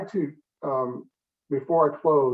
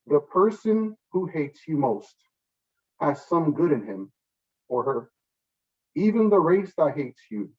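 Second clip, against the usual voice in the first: reading a speech aloud. Acted. Reading Doctor King's Loving Your Enemies speech to the audience, with measured oratory. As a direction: deliver it like a sermon from the pulpit. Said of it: "And Doctor King spoke and said".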